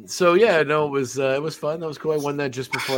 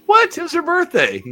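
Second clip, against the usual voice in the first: much higher, louder mock shock; mock outrage; 6 dB louder than usual. Host teasing his co-host, mock outraged shriek. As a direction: play the scandalised friend.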